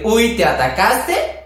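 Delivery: slow, sassy drag-queen tease; sassy quip. Retold or imitated. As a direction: tease them with a campy "Uy". Campy slang quote, drawn out.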